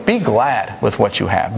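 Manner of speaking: slow, each word weighed; slow emphatic point. Shown as a demonstration. Preacher to congregation, stating last point slowly. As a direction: lay out the point slowly and deliberately. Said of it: "here's the last one".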